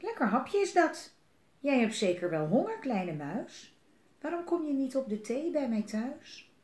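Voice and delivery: hungry owl. Acted. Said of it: "Uil die zag hem en die dacht".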